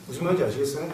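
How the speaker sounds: ordinary delivery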